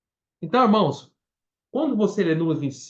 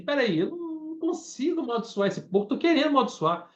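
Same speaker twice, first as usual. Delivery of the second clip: frustrated Balaam; 6 semitones higher than usual. Retold or imitated. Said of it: "Balaão pensou assim".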